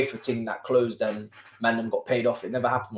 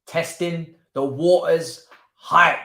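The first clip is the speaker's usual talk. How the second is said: slow, loud mock-hype call; drawn-out catchphrase; 5 semitones higher, 6 dB louder, much slower than usual. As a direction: stretch it out high and loud, playfully.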